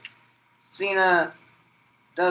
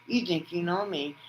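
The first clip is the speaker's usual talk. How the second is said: eerie intro line; 6 dB quieter than usual. Retold or imitated. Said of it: "and then suddenly we hear".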